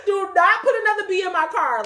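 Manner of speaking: high, loud mock plea; exasperated pleading. Pleading with God about bees.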